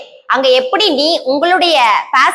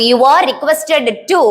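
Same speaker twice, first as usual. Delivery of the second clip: each word drawn out very slowly for the class; slow dictation; much slower than usual. Shown as a demonstration. (மிக மெதுவாக dictation சொல்வது)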